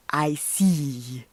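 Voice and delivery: put-on a predator luring a little girl, slowly; sly wolf voice. Wolf answers Riding.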